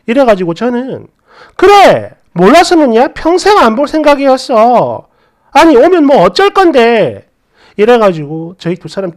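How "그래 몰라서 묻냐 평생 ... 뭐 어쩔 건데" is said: defiant retort. Retold or imitated. Wife retorts during the fight.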